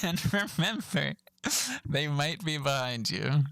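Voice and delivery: slow, mock-ominous safety announcement. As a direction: draw it out like a spooky warning. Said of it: "I just thought that was funny".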